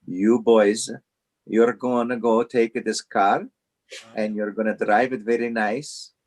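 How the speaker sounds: lightly voiced Italian boss, stern warning in broken English; a hint of an Italian accent, laying down the law; imitating an Italian boss. Italian boss warning young employees in a mock Italian accent. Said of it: "in his deep Italian voice".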